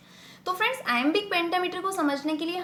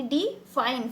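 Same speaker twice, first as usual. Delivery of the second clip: "डिफाइन" with the weight on फाइन; "डिफाइन" as unstressed डि, stressed फाइन; stress on second syllable; much slower than usual. Shown as a demonstration. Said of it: "फाइन पे हम stress डाल रहे हैं".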